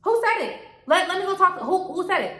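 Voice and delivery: high-pitched, repeated demand to know; retold indignant challenge. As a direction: act out confronting the group. Retelling own indignant confrontation.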